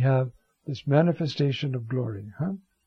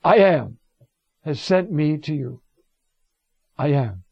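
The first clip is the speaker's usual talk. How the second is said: divine proclamation; 5 dB louder than usual. Acted. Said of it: "You go and tell the disciples".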